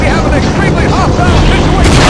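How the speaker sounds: barking an alarm to the troops; urgent briefing. Acted. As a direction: raise your voice over the rotors. Sergeant briefs troops mid-flight.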